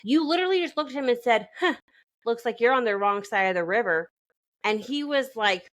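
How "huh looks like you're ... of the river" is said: flat deadpan delivery, no lilt. Retold or imitated. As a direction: say it dead flat. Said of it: "She just deadpans it".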